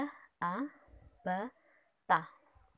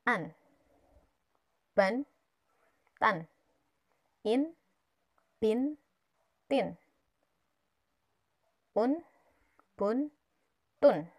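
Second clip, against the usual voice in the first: loud drill; 2 semitones higher, 8 dB louder, much slower than usual. Shown as a demonstration. Teacher drilling, children repeat.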